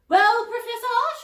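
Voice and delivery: a fussy, indignant lady, pitched high. Acted. Miss Polwarth warning Cauldron, prim and high. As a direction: read her like a proper busybody.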